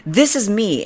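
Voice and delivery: high, showy self-introduction; lightly mocked self-important stranger; imitating the woman. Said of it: "she's like".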